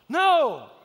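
put-on high, loud childish no; child's defiant no. Dad imitating his strong-willed daughter, high defiant no. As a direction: shout it like a stubborn toddler. Daughter refusing to return toy.

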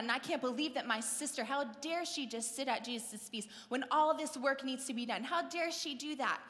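mildly indignant, quickening complaint; Martha, huffed up. Retold or imitated. Cook fuming about the sister sitting at Jesus' feet, mock huffy. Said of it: "getting all huffed up and mad".

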